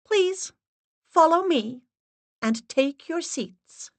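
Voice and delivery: high, stern, unvarying voice; steady monotone. Acted. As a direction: lay down the rules flat and firm. Assistant's held voice.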